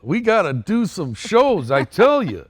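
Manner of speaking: high, loud elf voice. Shown as a demonstration. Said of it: "can you do it".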